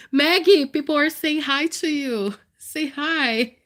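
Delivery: pet talk. Real, not acted. Talking to her dog on live.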